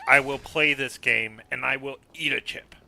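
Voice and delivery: dramatic villain declaring a plan; grand, loud scheming anime genius voice; Light Yagami. Acted. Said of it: "light Yagami".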